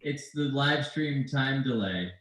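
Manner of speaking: faint echoed repeat; quiet distant delayed copy. Real, not acted. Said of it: "we have a big echo in here".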